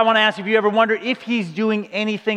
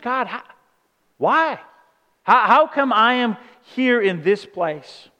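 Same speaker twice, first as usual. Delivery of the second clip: confused plea; 3 semitones higher, slower than usual. Retold or imitated. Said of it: "that left them confused".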